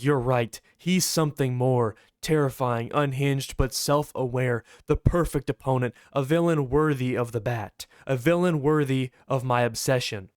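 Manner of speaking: slightly low, measured and grave; deliberate pauses, weighing each phrase; solemn praise. Acted. Bruce baiting Joker by praising his rival, gravely solemn.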